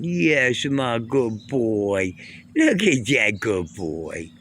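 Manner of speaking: slow, tender praise to a pet; cooing praise. Real, not acted. Cat comes running, he coos slow tender praise. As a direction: linger on each word, fondly.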